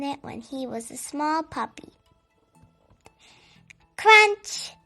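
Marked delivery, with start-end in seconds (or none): 4.0-4.7 high, loud burst on one word; sudden loud exclamation. A narrator's reading. Storyteller as the big dog breaks the couch, exclaiming loudly. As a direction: punch it out like a sudden crash.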